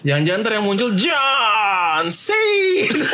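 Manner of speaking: slow, high, laughing through the words. Real, not acted. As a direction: laugh while saying it. Laughing at remembered thought.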